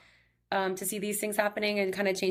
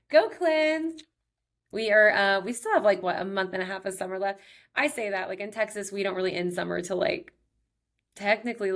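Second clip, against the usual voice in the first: upbeat sponsor read. Acted. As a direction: sell the product to the listeners.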